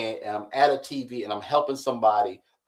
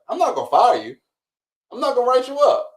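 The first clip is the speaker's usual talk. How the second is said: laughing while quoting; 7 semitones higher, 3 dB louder, faster than usual. Retold or imitated. Boss's reply retold through laughter.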